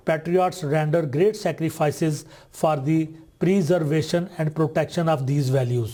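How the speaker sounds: slow, deliberate classroom read-aloud; slow careful reading. Shown as a demonstration. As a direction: read the English sentence slowly, word by word. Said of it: "teacher reads example sentence aloud".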